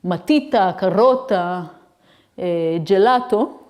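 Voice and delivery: matita, carota, gelato with the stress on the middle syllable; Italian words, penultimate stress. Shown as a demonstration. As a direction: read each Italian word slowly, stressing the middle syllable. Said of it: "the first two lines is".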